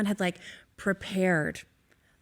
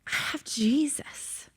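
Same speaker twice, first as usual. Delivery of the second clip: soft whisper; 5 semitones higher, 3 dB quieter, slower than usual. Retold or imitated. Poor woman comforting crying friend.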